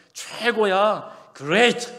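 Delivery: high, loud and drawn out with joy; super enthusiastic. Shown as a demonstration. Preacher teaching believers the joyful answer, excited. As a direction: shout it with overflowing delight. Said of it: "이렇게 대답하래요".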